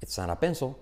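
"It's not a pencil" as "etsára penso"; native linked pronunciation. Shown as a demonstration. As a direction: tap the T and join "It's not a pencil" into one word. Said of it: "Frases como las que hemos visto".

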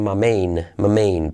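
"my main" with "my" shrunk to "ma"; quick native reduction. Shown as a demonstration. Teacher showing native shortcut, reduced my main. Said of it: "Dicho rápido, los nativos".

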